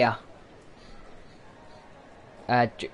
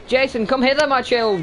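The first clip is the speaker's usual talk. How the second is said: mock archaic calling; 10 semitones higher, 4 dB louder than usual. Real, not acted. Player calling game son, loud mock archaic.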